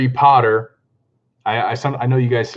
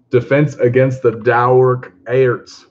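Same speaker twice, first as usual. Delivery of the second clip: slow, loud mock-Scottish accent; hammed-up amateur Scottish accent; 5 dB louder, slower than usual. Shown as a demonstration. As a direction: exaggerate the Scots vowels slowly. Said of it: "an actual Scottish accent".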